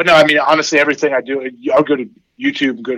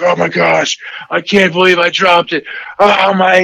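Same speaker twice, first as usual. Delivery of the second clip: mock distraught kid, higher, voice climbing; upset kid; 5 semitones higher than usual. Dad imitating his son freaking out, higher and rising. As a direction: play the son panicking over a dropped catch.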